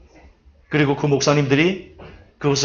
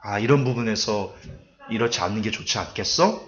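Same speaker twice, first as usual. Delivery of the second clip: gentle advice; 4 semitones lower, 7 dB quieter than usual. Shown as a demonstration. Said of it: "지혜롭게".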